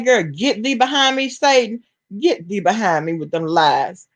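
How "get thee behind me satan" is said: put-on a lightly raised, preachy quote of the old saying; quoting scripture. To a chat viewer with a wild theory, a light preachy quote. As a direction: toss out the Bible line like a church lady. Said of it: "what they say".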